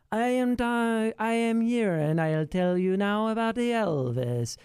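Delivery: mock the odd accent from a film about a singer; weird Tom Hanks accent. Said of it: "he starts doing this accent that I don't know what it is".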